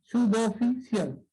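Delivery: "Su, do, fi, cial" quickly in a row; quick syllable recap. Shown as a demonstration. Teacher repeating the split quickly as a recap. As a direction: rattle off the syllables. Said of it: "Entonces sería así".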